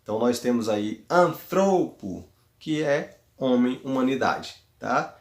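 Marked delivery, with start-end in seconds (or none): 1.1-2.3 anthropo with a lengthened middle THRO; stress on THRO. Shown as a demonstration. Teacher summing up the example, anthropo stressed on THRO. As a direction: put the accent on THRO in anthropo. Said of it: "thro, na sílaba thro".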